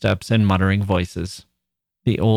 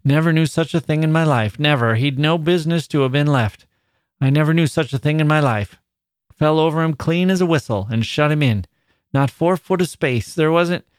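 manager lamenting over the dead collier; troubled old manager; 6 semitones higher than usual. Acted.

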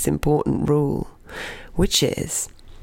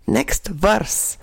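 cheery announcement; 5 semitones higher than usual. Retold or imitated. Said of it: "she announced".

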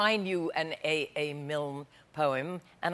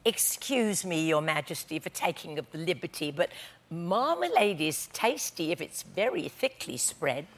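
softer, slower, shy apology; embarrassed; 3 semitones lower, 6 dB quieter than usual. Acted. Dairymaid shyly begging the queen's pardon, softer and slower. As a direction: blush through it, speaking timidly. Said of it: "She turned a little red".

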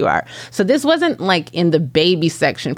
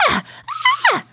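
short, restrained mock shrieks; imitated scream. Retelling a friend screaming on a ride, mock scream. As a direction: imitate a friend's scream without going full volume. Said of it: "kinda, like, screaming, kinda like".

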